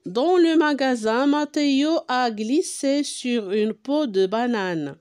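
drawn-out French read-aloud; deliberate dictation pace, each word stretched; slow example reading. Real, not acted. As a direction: read the sentence very slowly for learners. Reads example sentence aloud slowly.

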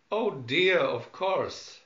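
loud fussy exclamation; flustered and fussy. Acted. Smith fussy.

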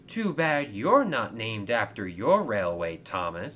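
mild teasing jab; cheeky. Acted. Coach teases Thomas about his name, mildly cheeky. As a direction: needle him lightly. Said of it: "said Clarabelle cheekily".

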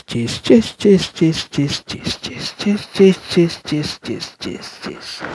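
"chase" repeated with a "ch" start, /tʃes/; word from his language. Shown as a demonstration. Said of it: "in my language, that is like chase".

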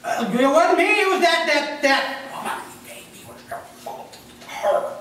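high, loud, laughing blame-shifting Adam; whiny excuse. Retold or imitated. Adam blames the woman to God, whiny and high. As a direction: squeal out the excuse like a caught kid. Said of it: "And the finger pointing starts".

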